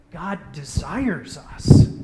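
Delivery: slow and loud, leaning on desires; slow solemn declaration. Shown as a demonstration. Preacher voicing the bold claim, slow and loud. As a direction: proclaim it slowly with weight. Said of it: "We could say".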